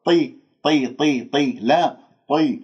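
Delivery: طي repeated with a heavy emphatic "t"; heavy ta drills. Shown as a demonstration. Teacher drills the letter: short heavy طي syllables. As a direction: thicken the ط in طي, never a thin t. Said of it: "الطاء مكسورة مفخمة، ما أجيبها مرققة".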